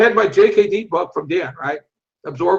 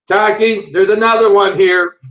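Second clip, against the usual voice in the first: loudspeaker page; 7 dB louder, slower than usual. Retold or imitated. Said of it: "the lady gets on the loudspeaker and goes".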